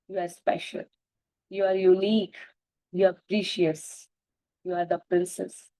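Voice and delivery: slow, steady list of affirmations. Acted. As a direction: lay down each praise slowly and lovingly.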